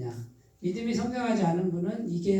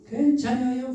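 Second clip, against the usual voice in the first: Chungcheong dialect reply; 5 semitones higher than usual. Acted. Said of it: "충청도 사투리 쓰네 제가".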